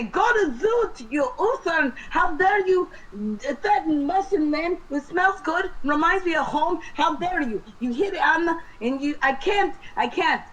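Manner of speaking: high, frantic indignant ranting; worked-up tirade. Acted. Player's character rants at the Sturge, high and frantic. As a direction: rant at the beast, worked up and sputtering. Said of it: "And I wanna say".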